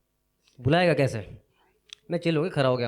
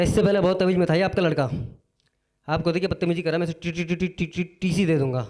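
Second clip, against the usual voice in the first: angry principal; 3 semitones higher than usual. Retold or imitated. Principal threatening the father.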